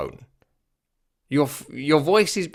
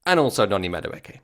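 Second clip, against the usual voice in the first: lower, falling afterthought introduction; anticlimactic announcement; 3 semitones lower than usual. Retold or imitated. Announcer adding the lesser player, deflated afterthought. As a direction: let the name drop away.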